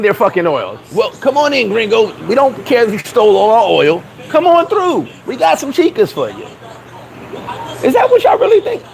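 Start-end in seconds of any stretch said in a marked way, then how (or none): 0.9-6.4 pitched-up fake welcome to gringos; mock luring local. 7.8-8.8 high, disbelieving question; can't believe it; pitched-up disbelief; incredulous. Real, not acted.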